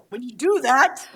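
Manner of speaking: ordinary talk, nothing marked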